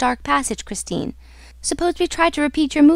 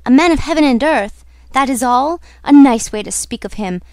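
louder, disbelieving echo of her words; indignant echo; 3 semitones higher, 6 dB louder than usual. Acted. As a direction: throw the words back at her, affronted. Lover throws her words back indignantly.

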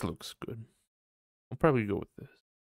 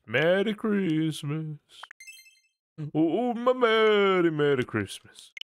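higher, slow, sing-song holiday greeting that swells louder; put-on festive voice; 6 semitones higher, 4 dB louder, slower than usual. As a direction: croon it like a goofy Christmas character.

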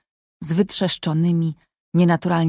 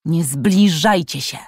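yell. Acted. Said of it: "wrzasnął".

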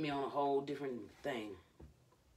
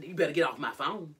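louder, mock-indignant quote; 2 semitones higher, 7 dB louder than usual. Prank call man refusing the caller, indignant. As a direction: snap it like someone fed up on a call.

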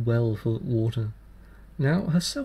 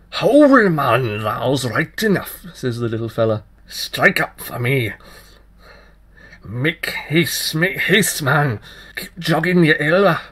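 put-on wild fairy child; 3 semitones higher, 8 dB louder, slower than usual. Fairy child urges the tailor to play faster, very loud. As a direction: drive him on, frantic.

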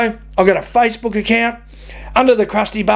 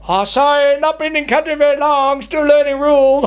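slightly higher mock Asian accent; 6 semitones higher than usual. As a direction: fake an Asian accent to play innocent. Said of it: "did that in an Asian accent".

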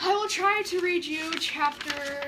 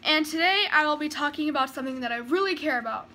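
put-on loud Irish-accent YouTube greeting; Jacksepticeye impression; 3 semitones higher, 7 dB louder than usual. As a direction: burst in like a hyper Irish vlogger. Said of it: "Jacksepticeye uploaded the video".

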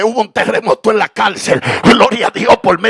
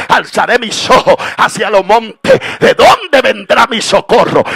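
David's plea; 4 semitones higher, 4 dB louder than usual. Acted. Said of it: "David dijo".

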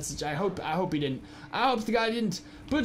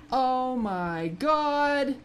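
drawn-out dismay; 3 semitones higher, much slower than usual. Real, not acted. Pet missing.

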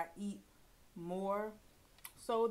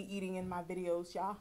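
chewing while talking; talking around a bite; mouth partly full. Real, not acted. Seen 1: bit sandwich at -3, mouth still working food early in words.

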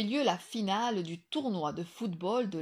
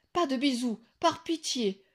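laughing; 4 semitones higher, 6 dB louder than usual. A narrator's reading. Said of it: "rigola ce dernier".

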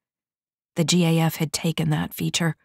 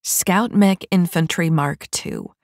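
slow, solemn intoning; intoned; slower than usual. A narrator's reading. Silva naming the model to Vi, slow intoning. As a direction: announce it like a title. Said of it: "Silva intoned".

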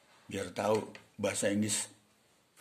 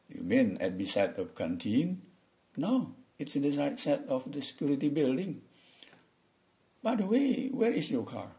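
slow model conversation, pitch often raised; English dialogue read for learners; 5 semitones higher than usual. Acted. Teacher acts out two coworkers chatting after work, slow demo dialogue. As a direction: voice both friends with careful, swinging intonation.

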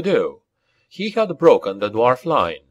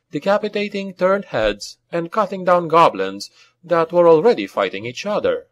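ordinary delivery

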